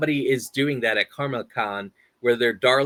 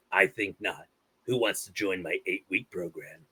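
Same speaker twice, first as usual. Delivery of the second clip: Napoleon Dynamite impression. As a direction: recite the movie lines in character. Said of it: "I'm gonna do Napoleon Dynamite".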